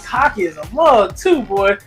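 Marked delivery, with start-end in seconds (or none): none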